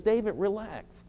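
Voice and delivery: slow, soothing reassurance to a worn-out pastor; gentle voice of Jesus. Acted. Jesus gently telling David to relax, slow and soothing. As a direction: let each word settle, calm and kind. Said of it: "The Lord Jesus says".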